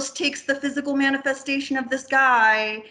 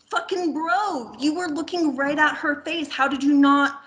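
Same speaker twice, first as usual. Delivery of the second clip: exasperated mock scolding; 2 semitones higher than usual. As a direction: drag it out in disbelief, like talking to a clueless bro. Mocks the killer's mistake.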